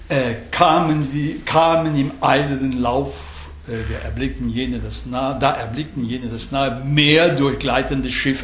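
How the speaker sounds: lightly scanned German lines with the beats stressed; German verse reading. Shown as a demonstration. Teacher reads a German translation to show the stressed syllables. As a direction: read "kamen im eilenden Lauf" with a steady beat. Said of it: "faire ça en français".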